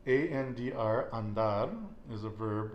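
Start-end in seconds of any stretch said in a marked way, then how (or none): 1.1-1.7 "andar" stressed on its final syllable, DAR; stress on last syllable. Shown as a demonstration. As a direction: lean on the end of "andar". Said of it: "Where are we putting that stress?".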